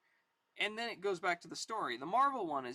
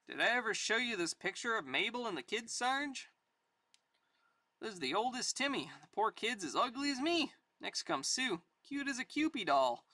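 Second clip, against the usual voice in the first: lightly voiced old private, pitch lilting up; proud soldier Pappy; 4 semitones higher than usual. Pappy showing the sergeant his family picture, lightly voiced. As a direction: show off the kids fondly.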